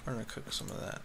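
quiet voiceless mutter. Real, not acted. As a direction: say it under your breath. Repeats line to himself.

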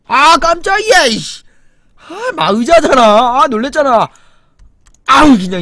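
slow, high, loud fright; startled yelp. Real, not acted. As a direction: jump at the shadow and cry out. Startled by a chair in the dark.

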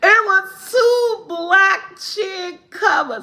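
high, slow words squeezed out through laughter; can barely get it out for laughing, high and slow; laughing hard. Real, not acted. Telling viewers the punchline while cracking up laughing.

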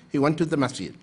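ordinary talk, nothing marked

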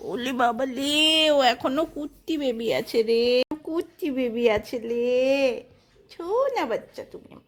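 slow, drawn-out cooing. Real, not acted. Mother baby-talking to her child. (আদুরে আধো আধো বুলি)

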